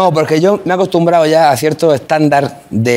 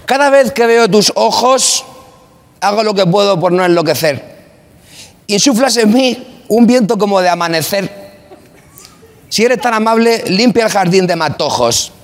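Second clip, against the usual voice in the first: grand poetry declamation; 2 semitones higher than usual. Pretend. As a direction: declaim it like a serious poet. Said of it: "Voy a proyectar mucho la voz".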